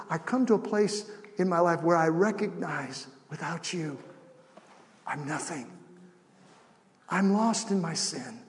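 measured prayer with long pauses; leading a prayer. Shown as a demonstration. Preacher leads congregation in salvation prayer, measured. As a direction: pray it phrase by phrase for others to follow.

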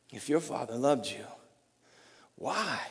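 soft whispered "If your father loved you" with low pitch; whispered taunt. Retold or imitated. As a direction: breathe it like a tempter. Taunt repeated, then louder.

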